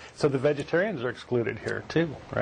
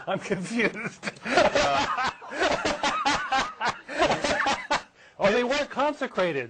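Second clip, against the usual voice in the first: giggling through the words; can't stop laughing while speaking; 11 semitones higher than usual. Real, not acted. Cracking up at the joke.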